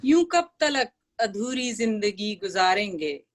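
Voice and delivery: measured, lilting verse reading; ghazal recitation. Acted. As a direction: recite the couplet for a mushaira audience.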